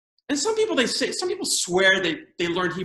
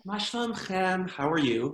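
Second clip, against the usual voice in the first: put-on teacher to small children. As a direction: coo it gently, as if to a kindergarten class. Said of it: "they speak to you like you're five years old".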